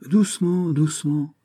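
high, gentle hushing; soothing calm-down. Acted. The magistrate soothes the furious count, gently calming. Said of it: "reprit Brillat Savarin".

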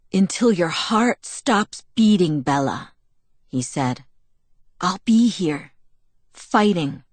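serious vow. Acted. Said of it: "Suddenly he was serious".

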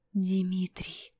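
a frightened whispered name; horrified whisper. A narrator's reading. Apollinary whispering the prince's name in horror. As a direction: breathe the name out in fear. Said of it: "прошептал он в ужасе".

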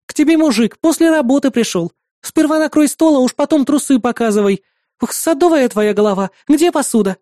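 high, sarcastic nosy neighbour; mocking neighbour. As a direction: sneer at the princess. Neighbour lecturing Лия.

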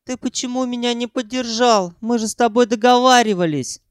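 high, aggrieved; Sanyok's high voice. A narrator's reading. Sanyok reproaching Ukhan for not backing him. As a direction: complain like a betrayed partner. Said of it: "спросил".

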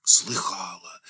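на выдохе, с опаской; выдохни слово боязливо; боязливый выдох. A narrator's reading. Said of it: "выдохнула Маша". (испуганно, на выдохе)

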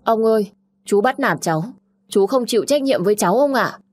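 crying out to grandfather; sobbing complaint, lightly acted; bursting into tears. A narrator's reading. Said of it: "và bật khóc".

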